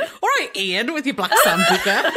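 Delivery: playful mock cockney accent. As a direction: put on a cockney, half laughing. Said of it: "That was my cockney".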